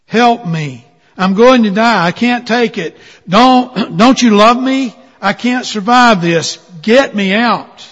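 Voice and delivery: high, loud terrified pleading; panicked screaming. Acted. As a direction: scream from inside the hot furnace. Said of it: "I began screaming".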